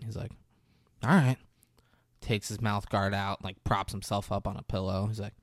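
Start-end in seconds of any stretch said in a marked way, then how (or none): 1.0-1.4 whisper. Retold or imitated. Grudging reply.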